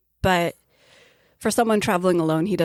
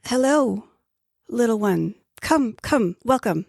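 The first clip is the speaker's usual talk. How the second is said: put-on old traveler; 5 semitones higher than usual. GM voices old man Razul.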